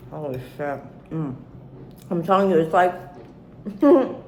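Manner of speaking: talking through a mouthful of food; chewing while talking; mouth full. Real, not acted. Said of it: "supposed to be eating with my mouth full".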